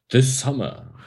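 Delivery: slow, dramatic trailer announcer; movie trailer voice. Pretend. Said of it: "mit dieser Trailerstimme".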